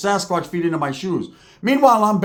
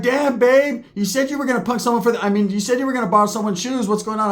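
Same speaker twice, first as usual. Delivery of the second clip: higher, lightly voiced girlfriend; lady's voice; 5 semitones higher than usual. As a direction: pitch up as his old lady. Girlfriend walks in.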